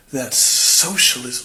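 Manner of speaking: slow, drawn-out mock disgust; extremely disgusted. Amish tour guide replying about shared money, slow and disgusted. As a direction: drag it out with revulsion. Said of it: "looks extremely disgusted as she replies with".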